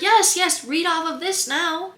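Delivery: high mock urging voice; hammed-up cue card holder urging her on; cue card guy. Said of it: "be like".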